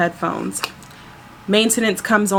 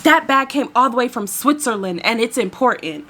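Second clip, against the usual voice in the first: mock indignant passenger; lightly hammed-up insistence; imitated agitation; 3 semitones higher than usual. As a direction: mimic someone making an emphatic complaint. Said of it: "I need you to calm down".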